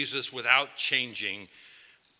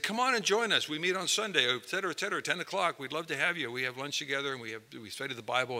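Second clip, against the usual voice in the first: inviting welcome; 7 dB quieter, faster than usual. Retold or imitated. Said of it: "And I said".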